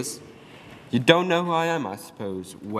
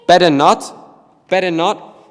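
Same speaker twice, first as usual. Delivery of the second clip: mocking echo; 3 semitones higher, 8 dB louder, slower than usual. The speaker mimicking Oliver's words.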